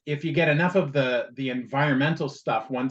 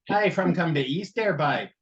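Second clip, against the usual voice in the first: mock Newfoundland accent, higher; a quick Newfoundland impression; 4 semitones higher than usual. Cohost imitating a hard Newfoundland accent, mild. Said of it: "you get the hard".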